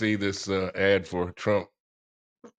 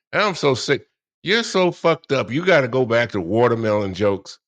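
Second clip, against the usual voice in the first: exasperated outburst; 5 dB louder than usual. Real, not acted. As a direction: spit it out, fed up. Ranting about watermelon jokes.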